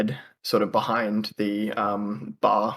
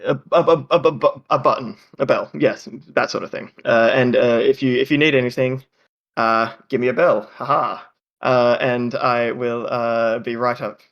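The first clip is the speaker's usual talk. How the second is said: flustered hostess. Acted. Halfling woman fumbling to explain the call bell to guests. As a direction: fumble for the word, then recover. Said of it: "she says".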